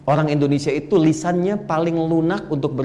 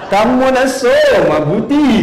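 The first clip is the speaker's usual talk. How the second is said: mock Bangladeshi accent; 4 semitones higher, 4 dB louder, slower than usual. Shown as a demonstration. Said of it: "kayak orang Bangladesh".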